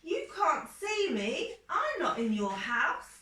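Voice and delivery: mouse voice. Acted. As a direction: squeak it up as the hiding mouse. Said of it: "mouse says".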